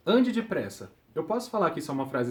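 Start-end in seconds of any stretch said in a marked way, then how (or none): 0.1-0.9 "Ande depressa" como ordem, um pouco mais alta; ordem leve. Shown as a demonstration. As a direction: apresse alguém, de leve. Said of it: "Olha lá". (tom de comando suave)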